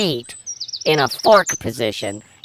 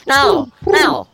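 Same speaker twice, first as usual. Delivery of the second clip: mock pleading; 7 semitones higher, 4 dB louder, slower than usual. Begging the guard not to coo.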